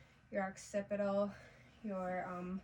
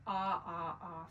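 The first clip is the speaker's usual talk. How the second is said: saying ahh; 3 semitones lower, slower than usual. Shown as a demonstration. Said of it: "this is where you're gonna say".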